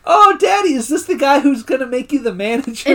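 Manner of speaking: high-pitched imitation of a small girl; little daughter voice. Voicing Daryl's daughter.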